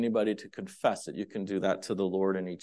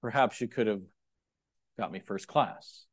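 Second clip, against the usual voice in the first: wry joking prayer; 2 semitones lower than usual. Shown as a demonstration. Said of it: "this way".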